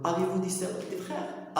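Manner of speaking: very slow, each syllable of "Avez-vous des sœurs et des frères؟" separated; slow correct form. Shown as a demonstration. Teacher showing students the right way to ask, slowly. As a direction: model the correct inversion slowly. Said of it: "تتقول له".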